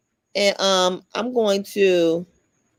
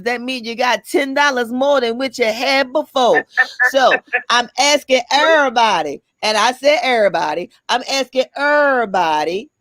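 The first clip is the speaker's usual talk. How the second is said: church voice. Pretend. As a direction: plead with the congregation like a preacher. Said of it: "So I'm gonna do my church voice".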